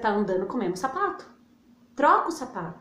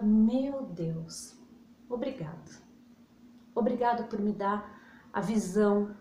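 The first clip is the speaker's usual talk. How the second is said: gratitude prayer; 3 semitones lower than usual. Shown as a demonstration. Prays aloud as demo.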